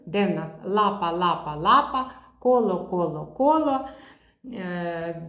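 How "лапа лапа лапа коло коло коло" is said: лапа and коло with a clear, held Л; Л sound drill. Shown as a demonstration. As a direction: make the Л in коло ring. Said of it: "вимова звука Л".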